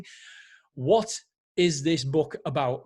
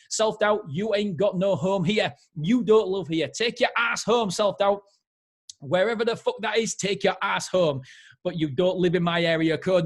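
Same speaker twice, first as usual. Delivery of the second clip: imitating Kevin Hart; 2 semitones higher, 3 dB louder than usual. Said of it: "I tried to do it in the way he talks".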